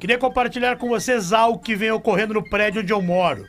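reading aloud like a sports bulletin; sports-bulletin intonation. Real, not acted. Host reading a listener's email on air, sports-bulletin intonation. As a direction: announce it in sportscaster cadence. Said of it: "ele fala com a entonação de esporte".

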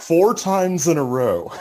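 laughing through the words; cracking up while finishing the story. Real, not acted.

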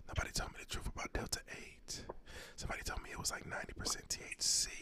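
spooky Halloween whisper; creepy whisper. Pretend. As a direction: hiss it like a creepy ghost. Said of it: "keep on whispering".

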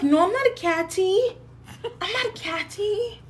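high-pitched mock protest; protesting denial. Retold denial to her brother.

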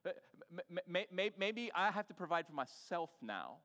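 loud, quick, self-protective inner voice; imitating a spouse who is shutting down; defensive spouse. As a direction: snap back fast like a hurt partner. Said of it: "And you're like".

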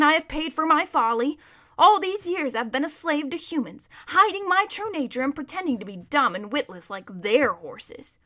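lightly voiced, aggrieved horse; animated, emphatic complaint; a proud horse airing its grievance; bitter talking horse.

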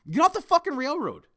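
high, loud furious yell at the protesters; angry shout. Real, not acted. Ranting at rail-blocking protesters, furious shout. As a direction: blow up and roar it out. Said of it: "I wasn't gonna rant".

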